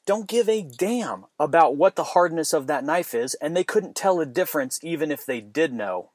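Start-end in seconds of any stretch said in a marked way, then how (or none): 0.1-2.5 fired-up challenge, pitched up; indignant rant rising high on the questions. Real, not acted. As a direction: demand an answer, worked up. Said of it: "I'm fired up on that one".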